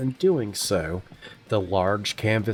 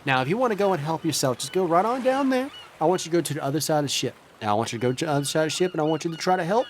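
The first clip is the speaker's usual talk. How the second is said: higher, brighter sailor voice; eager crewman; 4 semitones higher, much faster than usual. Acted. Healer answering the captain's call. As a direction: rush in ready to help. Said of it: "he's like".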